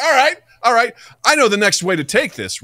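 lightly acted, high-pitched plotting; mock scheming resolve. Student planning his next prank, mock scheming.

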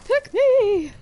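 high, loud shrieking ghoul plea. Shown as a demonstration. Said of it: "I'll be a ghoul voice for your games".

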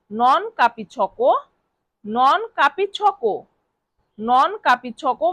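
very slow repeated phrase; slow drill. Shown as a demonstration. Teacher drilling non capisco for students, very slow. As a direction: drag it out for the class. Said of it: "এর Italian বাক্য হবে".

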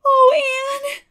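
put-on high breathless girl's gasp; a girl's high gasp of relief. A narrator's reading. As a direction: gasp her name in shock and relief. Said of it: "gasped Diana".

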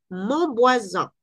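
"mon voisin" muy despacio con la n nasal; mon voisin lento. Shown as a demonstration. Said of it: "¿Qué pasa aquí con la N?". (nasal francesa en "mon voisin")

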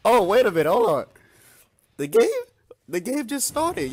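high, loud exclamations of alarm; loud startled protest. Real, not acted. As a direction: protest loudly, caught off guard. Caught off guard as game starts.

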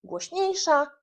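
"głośniejsza" lifted high in pitch; demonstrated stress. Shown as a demonstration. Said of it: "akcentowana sylaba to jest ta sylaba".

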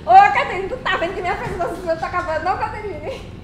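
loud call, fast pleading complaint. Acted. Streamer calling out to viewer Caterine, loud. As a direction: call her out loudly, half joking.

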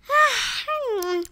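soft, high waking gasp; breathy "ah" of being woken. A narrator's reading. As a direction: gasp softly as if startled awake. Winnie waking up suddenly.

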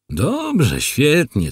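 high-pitched, pleased approval; smacking approval. A narrator's reading. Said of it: "cmokał Orzech". (z aprobatą, cmokając)

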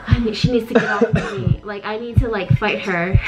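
quick, urgent inner thoughts; inner panic voice. Retold or imitated. Telling of fighting the nun off, fast panicked thoughts. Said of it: "in my head, I was like".

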